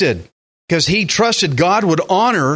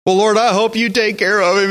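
mock whining; 3 semitones higher than usual. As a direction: mimic someone whining to the Lord. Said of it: "go lay down and whine".

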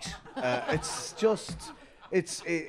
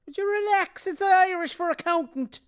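comic put-on voice; 5 dB louder than usual. Comic sketch, high put-on voice.

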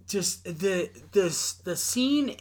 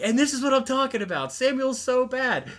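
mock outrage; 10 semitones higher than usual. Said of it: "they're like".

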